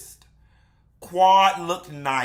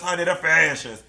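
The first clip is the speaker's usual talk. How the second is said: sing-song catchphrase; faster than usual. Acted. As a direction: let the audience chant along. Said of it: "How many of y'all said that with me?".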